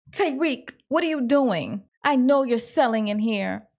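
retold accusation, starting high on the name; mock confrontation. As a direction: call them out, lightly acted. Acts out Noma confronting Tyreek.

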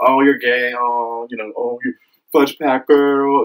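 sneering schoolyard taunt, slowing on the insult; hammed-up taunt in a bully's voice; mocking bully voice.

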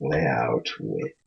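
low, soft creepy voice. Shown as a demonstration. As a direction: drop low and quiet, spooky. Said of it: "Creepy voice".

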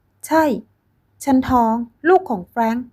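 high, loud declaration; triumphant shout. Acted. Ex-girlfriend shouting her pregnancy at the young wife. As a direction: throw the news in her face.

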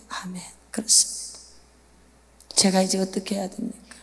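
usual speaking voice

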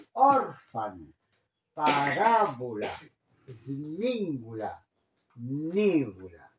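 "orfano, parabola, smingula, nivula", each stressed third from last; measured word list, "orfano, parabola, smingula, nivula", leaning on the antepenultimate syllable. Shown as a demonstration. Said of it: "son las esdrújulas". ("orfano, parabola, smingula, nivula" marcadas como esdrújulas)

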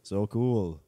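low, mock-admiring tone; patronizing. The guy answering a proud mother, patronizing. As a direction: feign admiration with a touch of condescension. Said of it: "Like, so patronizing".

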